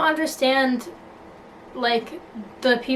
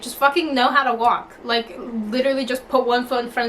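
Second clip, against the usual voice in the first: mock impatience; 2 semitones higher than usual. Impatient with imagined baby.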